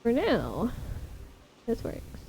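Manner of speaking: breathless after exertion; panting between words; out of breath. Real, not acted. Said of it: "I am so out of breath right now".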